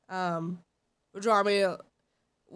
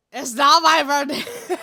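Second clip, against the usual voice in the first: exasperated protest; 2 semitones higher, 6 dB louder than usual. Real, not acted. Protesting again.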